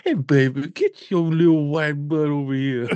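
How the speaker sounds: hammed-up mother calling her child; mom voice. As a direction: call him over like a sassy mom. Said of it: "Spence can do them voices".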